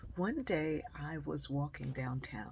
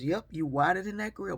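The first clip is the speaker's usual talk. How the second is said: teasing husband; 3 semitones higher, 8 dB louder than usual. Retold or imitated.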